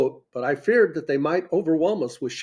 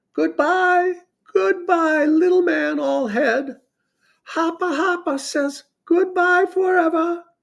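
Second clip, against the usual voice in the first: put-on very high, shrill, piping baby voice; 13 semitones higher than usual. Narrator voices the little princess as the speaker sails away: Hoppa Hoppa's shrill baby voice. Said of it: "that shrill baby voice".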